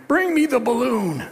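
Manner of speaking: sudden high sing-out, falling at the end; playful summons. Pretend. Preacher asks helper for the balloon, playful summons.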